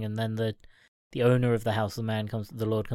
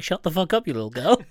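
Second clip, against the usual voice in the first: raised, mock-angry outburst with a laugh in it; holding back tears; 3 semitones higher, 4 dB louder, faster than usual. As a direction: snap at a child, half laughing. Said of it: "He's, like, holding back tears".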